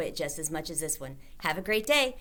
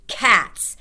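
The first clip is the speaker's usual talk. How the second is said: single word shouted, much louder; boy reveals the answer with a louder shout; 3 semitones higher, 10 dB louder than usual. A narrator's reading. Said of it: "I shouted".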